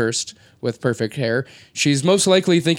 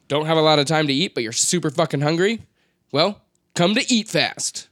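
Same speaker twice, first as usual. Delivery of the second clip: ad read. Pretend. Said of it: "quick commercial break".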